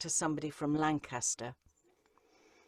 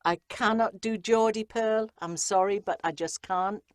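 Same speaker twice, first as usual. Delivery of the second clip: higher-pitched, shaky stab at Geordie; attempted Geordie accent; 4 semitones higher, 3 dB louder than usual. Shown as a demonstration. Narrator tells Pearl she can't do her accent, attempted Geordie. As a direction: have an unsuccessful go at a Geordie accent. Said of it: "that was awful".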